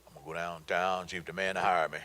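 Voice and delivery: a hint of a timid job seeker; mock young graduate. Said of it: "these kids with these fancy degrees".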